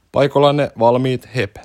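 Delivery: slow, drawn-out starter's call; race starter call. Acted. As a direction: count off the start of a race, slowly. (hidas lähtölaskuhuuto)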